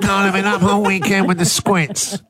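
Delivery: mock calling in sick to the boss; fake sick-day voice. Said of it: "This is the voice you do when you call your boss".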